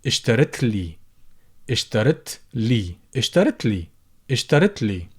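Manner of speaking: اشترت لي with no alif; shortened form. Shown as a demonstration. Teacher drills the shortened form. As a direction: drop the alif in إلي. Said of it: "would become".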